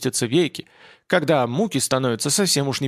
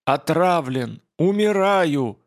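rasping out, poisoned and dying; hoarse rasp; 4 semitones higher, slower than usual. Acted. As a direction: croak it like a poisoned man. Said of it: "прохрипел".

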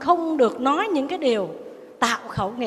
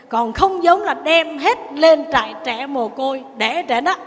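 acted defiant comeback, louder on the threats; retold angry retort; 3 semitones higher, 4 dB louder than usual. Daughter-in-law threatens the orphanage to her mother-in-law, mock angry. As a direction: hit back like a daughter-in-law pushed too far. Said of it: "quá sức tức rồi".

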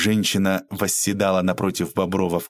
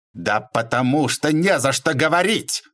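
higher-pitched angry retort; shouting; 5 semitones higher than usual. A narrator's reading. Man denying he owes thanks, angry cry. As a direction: cry it back, fed up. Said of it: "закричал Бобров".

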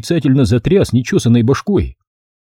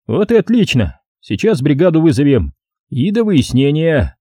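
higher-pitched official order; officious sergeant; 4 semitones higher than usual. Acted. Sergeant orders suspect along for a report, raised officious voice. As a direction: pointedly take command.

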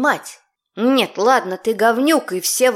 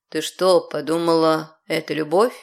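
mocking lord; 6 semitones lower than usual.

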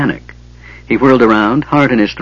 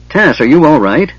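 calling higher and louder into the dragon's head; called out; 6 semitones higher, 4 dB louder than usual. Acted. Tanis calling to the Kender trapped inside. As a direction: call in to him, raising the voice. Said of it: "Tanis called out".

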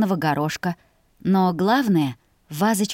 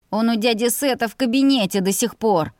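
plain reading voice

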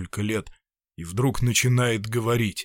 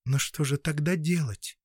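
softer, thoughtful question; pensive; 3 semitones higher, 4 dB quieter than usual. Acted. Anna quietly ponders what can be done, pensive and softer. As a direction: wonder aloud to yourself. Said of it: "задумчиво сказала Анна Даниловна".

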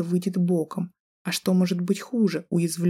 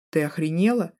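орёт. Acted. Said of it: "Орёт".

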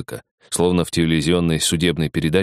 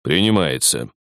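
deep velvety voice; 2 semitones lower than usual. Acted. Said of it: "глубокий бархатный голос".

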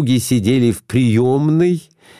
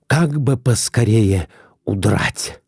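ordinary delivery

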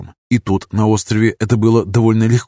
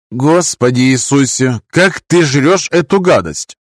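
disgusted; 3 semitones higher, slower than usual. Acted. Sue disgusted by roommate's food.

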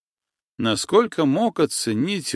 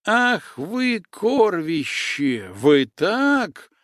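much higher shrieking insult; girls screeching; 6 semitones higher, much slower than usual. Acted. Girls fighting and pulling hair, screeching insults at each other. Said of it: "Это уже кричали девы".

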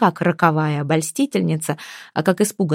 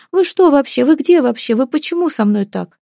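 tearful reproach; 7 semitones higher than usual. Acted. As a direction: sob out the reproach. Галя в слезах упрекает. (плачущий упрёк, выше и громче)

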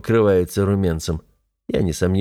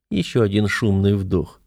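usual speaking voice

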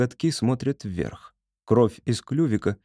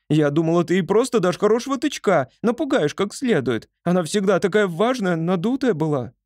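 shouting; 8 semitones higher than usual. A narrator's reading. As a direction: keep yelling, close to tears. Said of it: "кричала Поня". (громкий возмущённый крик)

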